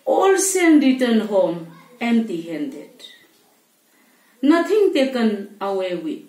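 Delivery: measured verse reading, long pauses between phrases; poem recitation. Acted. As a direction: recite line by line, letting each phrase fall. Recites poem after introduction.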